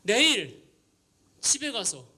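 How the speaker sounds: mock annoyance at emotional hype; retold irritation. Pastor fuming about teens crying at retreat, imitated. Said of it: "그분이 막 화가 나는 게".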